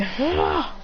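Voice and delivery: high, held-back cry of being hit; mock pained cry. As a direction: act out taking a blow, without volume. Attack wrecks the fighters.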